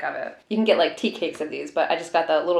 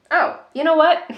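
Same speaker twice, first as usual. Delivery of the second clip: surprised; 9 semitones higher, 6 dB louder than usual. Real, not acted. Sudden realization about sample set.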